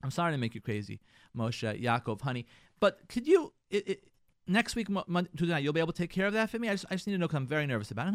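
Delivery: nervous request. Shown as a demonstration. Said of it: "say to him".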